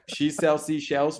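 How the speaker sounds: "she sells seashells" tripped over, the s and sh sounds blurred; stumbling tongue twister. Shown as a demonstration. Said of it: "but, oh, damn it".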